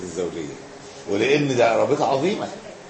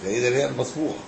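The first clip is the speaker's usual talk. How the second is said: measured classical Arabic reading; formal text reading; 2 semitones lower, 4 dB quieter than usual. Acted. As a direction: read the text out evenly, with pauses between phrases. Reads the book aloud.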